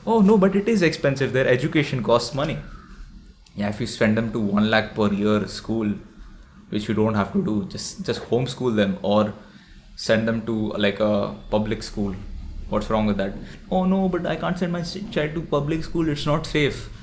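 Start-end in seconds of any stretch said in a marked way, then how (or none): 0.1-2.6 high whiny protest, then settling; mock objecting viewer. Mocking a viewer who says kids are expensive, whiny protest. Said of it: "Now you might say". 13.7-16.9 much higher, whiny worried excuse; mock anxious objector. Mocking a viewer who fears public school, high whiny worry.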